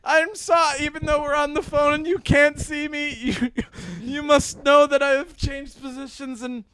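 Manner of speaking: hammed-up farewell, starting high; easing down from a high cry, accented; mock Japanese mother. Mock mom apologises to son on phone, hammed-up accented farewell. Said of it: "I'm the Japanese part of your family".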